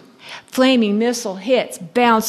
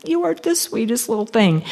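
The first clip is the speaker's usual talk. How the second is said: tender gushing; 2 semitones higher, 5 dB quieter than usual. Retold or imitated. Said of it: "And I thought".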